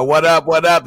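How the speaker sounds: loud, punchy hype greeting; loud street hustle call. Retold or imitated. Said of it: "say it like Hustler".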